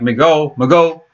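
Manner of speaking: migo said "mee-go", just two syllables. Shown as a demonstration. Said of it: "when you start saying it, it would be like".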